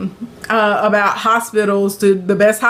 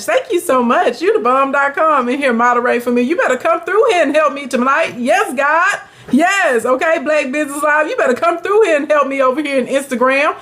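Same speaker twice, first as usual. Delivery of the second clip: higher, bubbly thank-yous to the chat; excited shout-outs; 5 semitones higher than usual. Real, not acted. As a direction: gush over the moderator and viewers.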